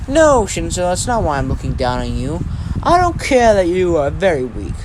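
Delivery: lecturing a rival with wide pitch swings; condescending Deku. Acted. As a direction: talk down to a disappointing opponent. Voices Deku scolding a rival.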